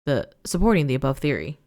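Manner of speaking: steady news-anchor read; measured report voice; newspaper read-aloud. Acted. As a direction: read it like a bulletin. Reads in-game newspaper aloud.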